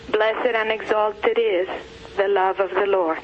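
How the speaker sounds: measured, evenly paced poem reading; poem recitation. Acted. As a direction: recite it line by line with steady, level pitch.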